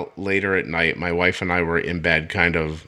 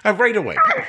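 higher-pitched, kidding outrage; mock indignation; 4 semitones higher than usual. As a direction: pretend to be slighted, playing it up for laughs. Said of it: "No, I'm just kidding".

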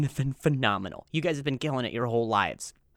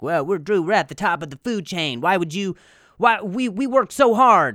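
indignant meat eater; 5 semitones higher, 5 dB louder than usual. Retold or imitated. Audience quoted as outraged meat eaters.

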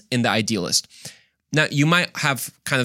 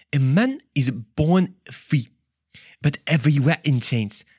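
badly faked French accent; 2 semitones higher than usual. Preacher reading Rousseau's quote, botched French accent. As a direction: try a French accent and miss. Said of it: "in the French accent".

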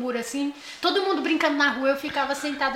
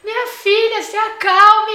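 mock soothing mom; 7 semitones higher, 8 dB louder, slower than usual. Imitating mom soothing her.

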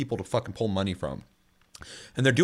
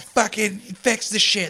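slow, higher demand at the company; exasperated demand; 9 semitones higher, 3 dB louder, slower than usual. Retold or imitated. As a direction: lean on it like a fed-up gamer. Players yelling at companies.

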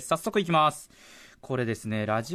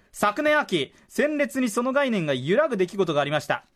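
higher-pitched, emphatic radio reading; impassioned letter reading; 5 semitones higher than usual. Acted. Host reads how the draft broadcast won the writer over, impassioned reading. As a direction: build the listener's story toward its climax. Letter builds to its heartfelt climax.

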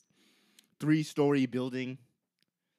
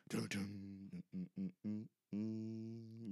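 tense music hum; 4 semitones lower, 13 dB quieter, much slower than usual. Retold or imitated. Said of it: "Music in the background playing".

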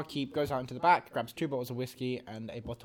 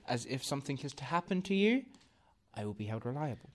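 stiff dutiful mage; 3 dB quieter than usual. Acted. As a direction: refuse politely, rule-bound and quiet.

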